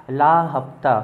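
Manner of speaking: mock gangster, demanding the weekly cut; goon's demand. Teacher voicing goons demanding money from the boy, mock-tough. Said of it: "धमकी दे रहे हैं इसको".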